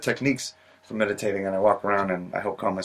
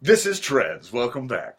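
show intro; 3 dB louder, much slower than usual. Shown as a demonstration. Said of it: "Let's try this again".

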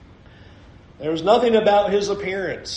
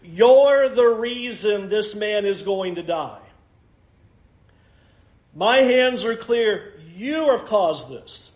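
accusing Pilate; 5 semitones higher than usual. Acted. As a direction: lay the blame on them, word by word. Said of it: "What Pilate is saying here is essentially".

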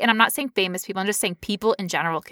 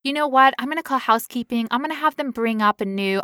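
nonchalant; 3 semitones higher than usual. Retold or imitated. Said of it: "so nonchalant".

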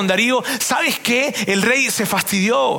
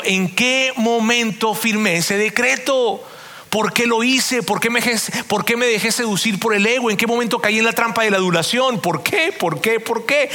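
king's anguished questions; 3 semitones higher than usual. Retold or imitated. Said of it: "ahí estaba Darío diciendo".

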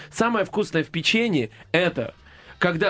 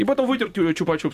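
ordinary talk, nothing marked

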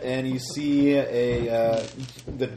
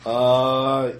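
curt kidnapper; 4 semitones higher, 9 dB louder than usual. Acted. GM voices kidnapper.

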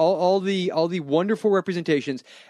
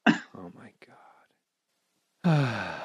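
whisper; 6 semitones lower, 5 dB quieter, much slower than usual. Real, not acted. Shocked aside about the movie.

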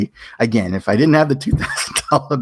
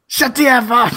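higher, a bit louder snap of annoyance; mock angry retort; 14 semitones higher, 3 dB louder than usual. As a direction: fire it back at him in mock fury. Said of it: "And I was like".

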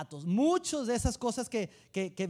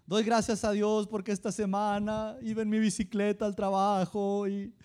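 mock teary testimony. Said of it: "así como que entre llorando".

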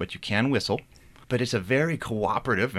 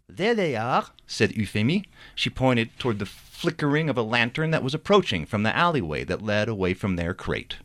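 reading his novel aloud with character voices; story narration. A narrator's reading. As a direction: tell the chapter like a storyteller. Author reads novel chapter aloud.

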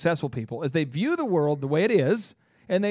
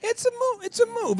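hyped catchphrase. Acted.

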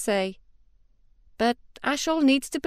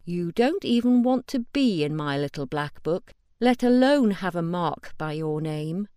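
menacing; 3 dB louder than usual. Acted. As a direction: lay out each word as a warning. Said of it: "the menace in her voice".

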